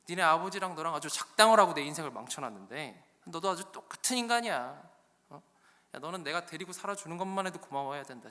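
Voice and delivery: mock indignant scolding; berating husband. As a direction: tell off a crying wife. Acted husband berates crying wife.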